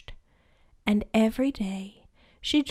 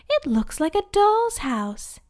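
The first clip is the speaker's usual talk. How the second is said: Snow White delighted; 7 semitones higher, 4 dB louder than usual. Acted. Snow White charmed by house.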